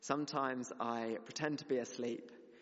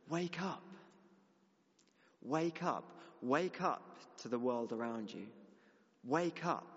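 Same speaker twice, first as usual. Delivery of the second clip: urgent wake-up call; 2 semitones higher than usual. Acted. God's word to the church, a rousing wake-up call. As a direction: ring it like an alarm clock. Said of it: "I felt like he was saying".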